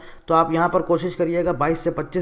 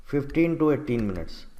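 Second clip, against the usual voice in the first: slow spelled-out emphasis; 3 semitones lower, 5 dB quieter, much slower than usual. Shown as a demonstration. Teacher repeats the figure in English.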